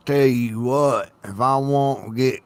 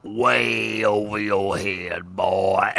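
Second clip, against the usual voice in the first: mock Southern drawl; 2 semitones lower, 4 dB quieter, slower than usual. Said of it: "I done gone so southern".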